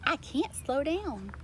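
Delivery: slow alarm, then a very high yelp for help; a panicked cow who can't brake; Molly panicking. A narrator's reading. Molly the cow panicking at the wheel. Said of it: "Molly uttered".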